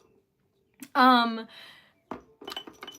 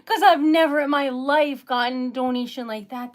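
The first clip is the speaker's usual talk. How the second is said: laughing through tears; 5 dB louder than usual. Real, not acted. Overwhelmed by a surprise donation.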